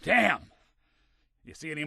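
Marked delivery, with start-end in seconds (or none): 0.0-0.4 high-pitched burst of frustration; sharp curse. Acted. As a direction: curse as the fight goes wrong. Cursing during a fight.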